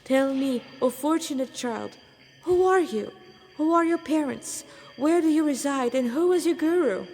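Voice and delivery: high and loud eager questioning; exuberant holy man. Acted. Stranger eagerly asking the orphan about his guru, booming. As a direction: press him with beaming, booming curiosity.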